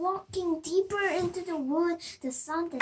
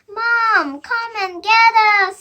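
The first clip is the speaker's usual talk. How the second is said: loud high call for Mom; crying out; 6 semitones higher, 14 dB louder than usual. Acted. Lost little girl crying out for her mom. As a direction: call for help, louder. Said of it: "Sophie cried".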